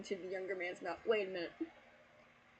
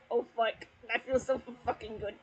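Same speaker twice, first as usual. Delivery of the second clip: hammed-up moan; 2 semitones higher, 4 dB louder than usual. Acted character line in fanfic.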